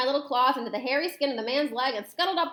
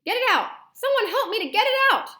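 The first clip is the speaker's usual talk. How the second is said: very high, loud comic panic; hammed-up shrieking at the top of the range; panicked screaming; 11 semitones higher, 7 dB louder than usual. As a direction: scream desperately for rescue. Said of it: "the man was screaming".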